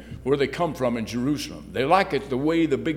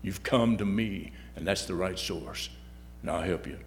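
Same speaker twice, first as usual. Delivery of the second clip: lower, softer, reassuring voice of God; a calm, lowered divine reply; God speaking; 6 semitones lower, 10 dB quieter than usual. Acted. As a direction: speak down gently as God comforting a child. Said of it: "God says".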